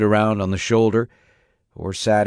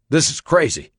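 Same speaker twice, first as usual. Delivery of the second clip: disbelief; 5 semitones higher than usual. Acted. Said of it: "full of disbelief".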